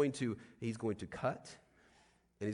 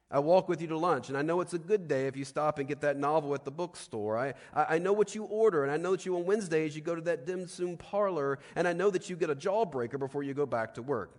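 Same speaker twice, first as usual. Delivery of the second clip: eager declaration; 5 semitones higher, 6 dB louder than usual. Retold or imitated. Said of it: "He says".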